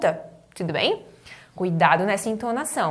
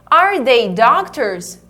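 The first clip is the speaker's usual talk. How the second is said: joined-up model; 5 dB louder, much slower than usual. Shown as a demonstration. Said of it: "Então eu falo".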